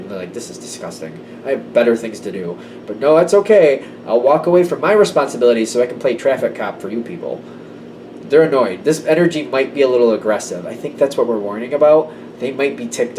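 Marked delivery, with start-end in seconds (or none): 0.3-7.4 aggravated sarcasm. Retold or imitated. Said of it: "somebody's aggravated".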